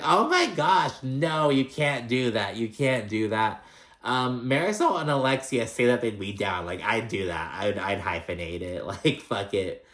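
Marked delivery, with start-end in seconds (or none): 0.0-3.7 high, then slow insistent no; gasp, then drag out the refusal; mock group protest. Podcaster imitating the cast objecting to the name. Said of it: "And everyone's like".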